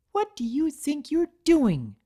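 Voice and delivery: high, loud indignant demand; assertive scolding. A narrator's reading. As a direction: stand firm and confront her. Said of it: "at her most assertive".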